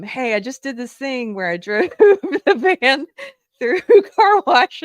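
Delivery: loud, laughing retelling of the call; high, loud giggling confession; laughing through it. Retold or imitated. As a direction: crack up while telling the boss. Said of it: "you know, I wasn't laughing".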